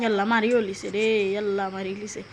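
casual Sylheti dialect, as announced to viewers; easygoing Sylheti banter. Shown as a demonstration. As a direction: switch into relaxed home-village Sylheti speech. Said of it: "তো আমি সিলেটি ভাষা শুরু করছি".

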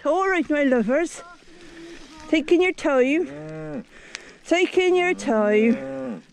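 slow West Country farmer chat to cows; easy, unhurried West Country coaxing; West Country accent. Acted. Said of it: "we all doing it in a West Country accent".

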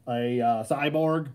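robotic distorted voice; cyborg voice. Real, not acted. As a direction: sound like a cyborg. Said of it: "I don't know why I sound like a cyborg".

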